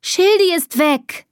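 high, slow wail of alarm; distressed cry. A narrator's reading. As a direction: cry out the bad news, pitched high. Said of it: "Was schreist du denn so".

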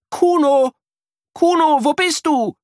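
high, loud anxious call. A narrator's reading. Child calls for lost friend. (lautes, hohes Rufen)

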